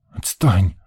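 curt, unfriendly brush-off; sullen boy. A narrator's reading. Boy shrugs off the little girl, sullen. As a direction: shrug it off in a short grumble. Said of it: "Рыжов дёрнул плечом".

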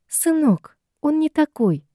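indignant huff. A narrator's reading. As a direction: bristle at the son's doubt. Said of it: "возмущённо фыркнула мадам".

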